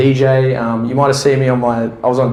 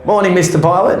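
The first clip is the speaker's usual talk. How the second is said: doctor greeting; 5 semitones higher than usual. Retold or imitated. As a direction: call out a cheery hello. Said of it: "see a pilot go to the doctor".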